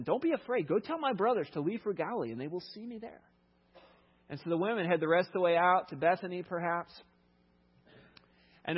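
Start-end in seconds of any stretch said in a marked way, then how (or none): 0.0-3.2 reassuring. A narrator's reading. Jesus reassures the frightened women.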